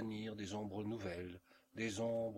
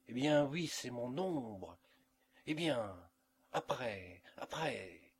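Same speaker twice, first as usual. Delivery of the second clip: crying out aloud; 2 semitones higher, 3 dB louder than usual. A narrator's reading. Mother, alone, cries out at her own shadow loudly. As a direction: blurt it out loud, then let it sink back. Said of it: "s'écria-t-elle tout haut".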